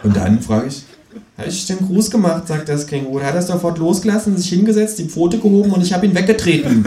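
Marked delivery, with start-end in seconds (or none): 1.4-6.9 high, pert kangaroo voice lecturing; sassy kangaroo holding forth; cheeky kangaroo. Acted. Kangaroo mocking the economist on live TV, high sassy voice.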